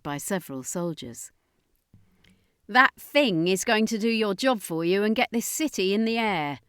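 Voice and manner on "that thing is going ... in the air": snapped back. Acted. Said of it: "Danica snapped back".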